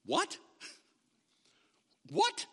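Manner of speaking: disbelieving What? to a student; incredulous. Retold or imitated. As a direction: react like you can't believe your ears. Teacher's shocked reaction.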